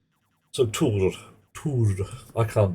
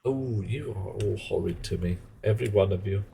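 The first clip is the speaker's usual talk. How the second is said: mock wounded; 5 dB quieter than usual. Mock hurt at chat teasing.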